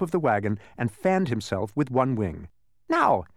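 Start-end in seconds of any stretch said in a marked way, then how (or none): 2.9-3.2 out of breath bee; panting. A narrator's reading. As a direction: puff out the word. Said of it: "he panted".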